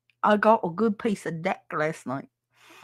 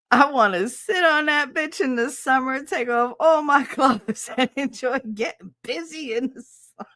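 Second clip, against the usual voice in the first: higher, hammed-up sexy chat read; playfully suggestive, higher voice; mock sultry read; 7 semitones higher than usual. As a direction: read the message like a cheesy come-on. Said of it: "I gotta read this out loud".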